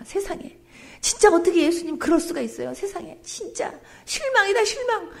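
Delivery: high, let-down sigh of disappointment; a wounded woman moaning she is let down; disappointed. Acted.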